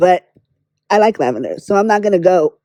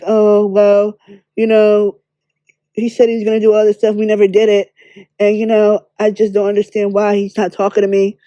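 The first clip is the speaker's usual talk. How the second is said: mock crying tears. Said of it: "it gives me, you know, crying tears".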